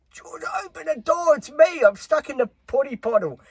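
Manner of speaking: high, loud mock yell of a stuck man; yelling Carl. Carl yelling to Georgia from the toilet, high mock yell. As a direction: call out high for help from the toilet. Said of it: "he's yelling out".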